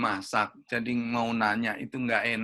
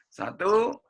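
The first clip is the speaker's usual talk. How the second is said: count-in; 4 semitones higher, 4 dB louder than usual. Real, not acted. Counting in the group chant.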